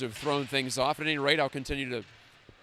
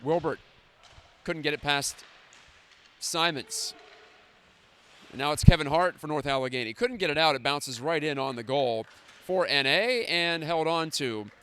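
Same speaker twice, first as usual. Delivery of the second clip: hockey play-by-play. Acted.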